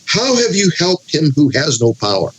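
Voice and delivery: mildly mocking rhetorical question; bitter sarcasm. Job answering his friend who offered no help, sarcastic. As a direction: read it as scornful mock praise. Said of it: "That's sarcasm".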